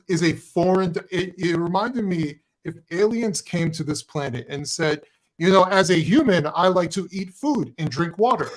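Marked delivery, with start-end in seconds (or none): 5.4-8.5 mock alien passing as human; lightly put-on, unnatural declaration; stilted alien imitation. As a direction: imitate someone awkwardly posing as an ordinary human. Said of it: "why would you talk like that".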